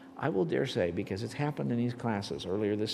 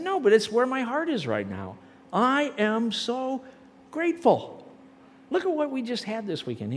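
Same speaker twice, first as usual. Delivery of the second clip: excited, higher and louder; 10 semitones higher, 5 dB louder than usual. Retold or imitated. To the puzzled staff member, an excited high grateful insistence. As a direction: voice lifted high with fervent gratitude. Retold excited reply in car.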